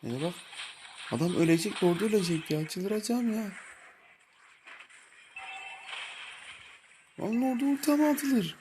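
high, loud enraged yelling; furious shout. Real, not acted. Gamer screaming at a teammate who wasted his ulti, furious shout. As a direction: scream it out, losing your mind at the team.

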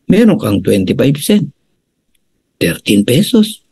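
gentler version. Shown as a demonstration. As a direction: tone it down for the members. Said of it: "Pwede ko naman baguhin".

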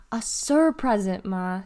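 "sur-present" slowed, SUR leaned on; correcting stress on sur. A narrator's reading. Delly correcting her mother, stressing "sur". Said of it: "she corrected her".

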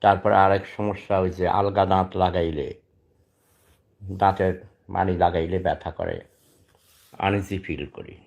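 speaking low and soft, short of strength; labouring through each phrase, sick with pneumonia; weak from illness. Real, not acted. Ailing man tells his audience he is too ill to talk easily, weak and soft. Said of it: "তাই কথা বলতে কষ্ট হয়".

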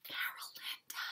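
hushed whispered name. A narrator's reading. People whispering Carolina's name to the giant, fearful. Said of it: "the people whispered".

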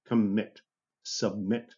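Commit and submit, each stressed on the final MIT; stress on last syllable. Shown as a demonstration. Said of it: "On the last syllable".

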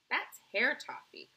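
excited cry. A narrator's reading. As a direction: proudly cry out the invention's name. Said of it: "cried Mister Wonka".

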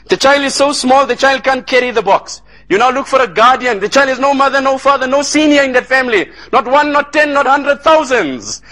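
preacher's mounting appeal for an orphan; impassioned preaching. Acted. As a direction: press each point home, stretching out the final word. Preacher builds the orphan's plight.

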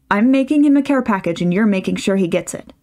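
firm, brooking no argument; decisive motherly command; no-nonsense. Acted. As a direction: steamroll over him. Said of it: "her most no-nonsense tone".

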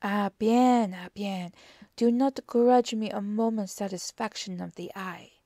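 emphatic start, then mild protest; lightly voiced detective conceding with relish; Poirot. Poirot answers Hastings.

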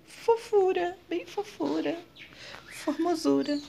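put-on high, cooing baby-talk voice; cutesy baby talk. Vlogger cooing over a tiny plant in baby talk. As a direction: coo it like talking to a baby.

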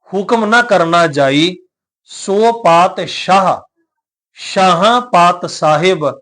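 slow, measured Gurbani recitation; scripture recitation. Shown as a demonstration. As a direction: draw out each phrase, pausing between them. Recites scripture verse, slowly.

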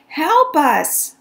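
high, loud cry for help; calling for help. Acted. Missus Watson calling out for help. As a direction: call out high and urgent. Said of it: "Missus Watson called".

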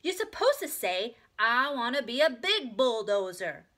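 loud, slow, emphatic correction; insistent child. A narrator's reading. Little sister corrects the reader, insistent. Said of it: "insisted Ramona".

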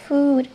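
"food" said with a long English u; English word food. Shown as a demonstration. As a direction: model "food" clearly. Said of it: "vas a decir".

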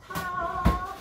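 high bright showman ta-da; ta-da reveal. Real, not acted. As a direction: present it with a flourish. Presenting the flatbreads.

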